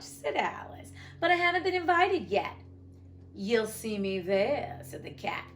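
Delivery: expressive read-aloud with lifted, swinging dialogue lines; story narration. A narrator's reading. Narrator voicing Alice asking the Cat the way, animated story narration. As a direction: lift the quotes, drop for the speech tags.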